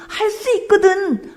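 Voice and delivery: preacher mimics the father's doubtful request, mock-pleading. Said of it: "이렇게 얘기했더니".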